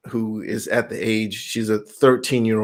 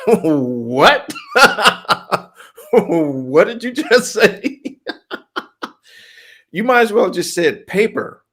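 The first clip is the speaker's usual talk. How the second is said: real laughter breaking through, higher; laughing in disbelief; 6 semitones higher, slower than usual. Real, not acted. Laughing at bacon in sprouts.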